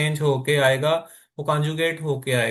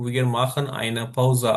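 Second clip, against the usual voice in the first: slow repeat; 4 semitones lower, much slower than usual. Shown as a demonstration. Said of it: "हम एक break करते हैं".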